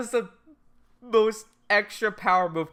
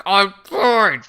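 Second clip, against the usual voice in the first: tense, forced imitation of calm; through gritted teeth; 4 dB louder than usual. Light insisting to Ryuk, through gritted teeth. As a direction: squeeze it out through clenched teeth. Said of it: "Just gritted teeth".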